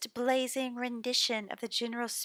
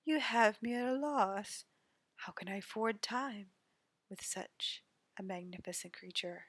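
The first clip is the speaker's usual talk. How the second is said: seductive charmer voice; flirty rogue. Acted. Flirty NPC Oriko voiced.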